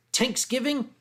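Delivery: THANKSGIVING as "tanks-giving", high questioning pitch; Philadelphia pronunciation. Retold or imitated. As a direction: echo THANKSGIVING with a hard T for TH. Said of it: "that's the Philadelphia accent".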